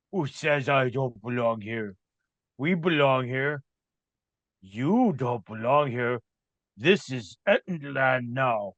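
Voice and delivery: lightly voiced surly brute, drawn out; slow, defiant monster talk; territorial monster head. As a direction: stake the claim like an ogre. Game master plays the monster head.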